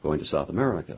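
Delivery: lightly mimicked clipped speech, first word dropped; Bush speak. Host mimicking the president's clipped speech, lightly. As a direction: clip off the opening word like a terse politician. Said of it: "He'll say".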